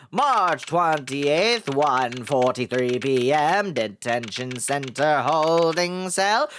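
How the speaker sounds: slow, stretched-out caption reading; deliberate, mock-official read; scene-card announcement. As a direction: announce date and place with drawn-out words.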